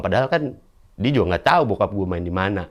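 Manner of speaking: ordinary talk, nothing marked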